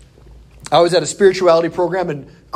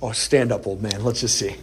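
mock taunt; 4 semitones lower, 5 dB quieter than usual. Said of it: "I'm like, jaws out".

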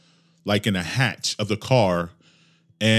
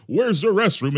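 mock Mexican accent, raised pitch; put-on Mexican-accented question; broken English; 7 semitones higher than usual. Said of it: "in broken English".

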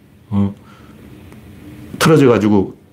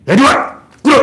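호통; 12 semitones higher than usual. Shown as a demonstration. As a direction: order them down sharply. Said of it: "이렇게 호통을 쳐야지". (무릎 꿇으라는 호통)

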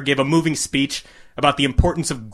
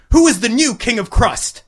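higher showman call; hyped announcer; 9 semitones higher than usual. A narrator's reading. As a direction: sell the big reveal to the crowd. Announcer hyping the crowd.

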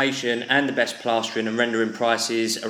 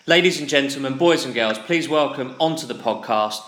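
grand entrance announcement; 2 semitones higher than usual. Acted. Host introduces guest like announcer.

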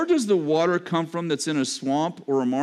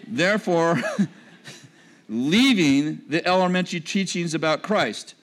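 reading with a laugh. Shown as a demonstration. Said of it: "Let me read it again".

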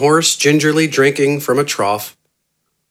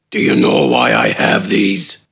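very low, dry, mocking growl; sarcastic brute; 10 semitones lower than usual. A narrator's reading. Gafgarn mocking the doctor, deep and sarcastic. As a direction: sneer the question low. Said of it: "he said sarcastically".

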